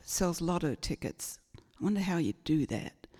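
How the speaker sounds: hushed private whisper to herself; whispered thought. Retold or imitated. Wondering about lotto tickets at the shop, in a whisper.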